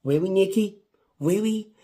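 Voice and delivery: really, you did that?; exasperated disbelief. Real, not acted. Fan scolding wrestler Nikki, exasperated disbelief.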